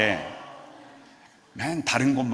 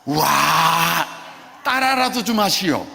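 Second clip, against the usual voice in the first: ecstatic wow; 3 semitones higher, 3 dB louder, much slower than usual. Pretend. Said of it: "백 일 동안".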